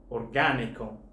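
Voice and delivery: orgánico with the beat on GÁ, not on the next-to-last syllable; shifted stress. Shown as a demonstration. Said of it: "there's a shift in stress here".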